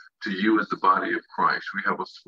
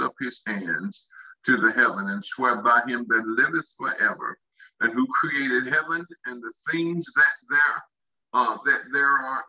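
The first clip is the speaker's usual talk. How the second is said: measured, slightly higher-pitched scripture reading; 3 semitones higher than usual. Real, not acted. Preacher reading Revelation to his congregation, measured scripture reading. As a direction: read the verse out deliberately to the congregation.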